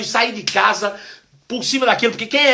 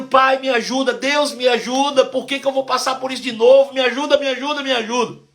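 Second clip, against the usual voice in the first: retold tearful plea; 5 semitones higher than usual. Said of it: "eu fiquei ali chorando, chorando, chorando".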